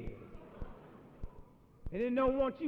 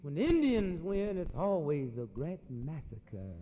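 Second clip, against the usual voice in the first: ironic; 4 semitones lower, slower than usual. Acted. Ironic contrast.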